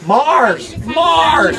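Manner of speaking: excited. Real, not acted. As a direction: cheer the right answer out loud. Audience gives the surprising answer.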